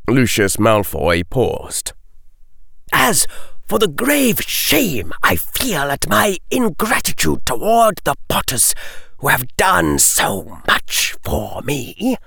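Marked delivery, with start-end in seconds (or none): 2.9-12.2 higher, slowing sarcastic regret; hammed-up false shame; mock remorse. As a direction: Lucius mocks the Potters' debt.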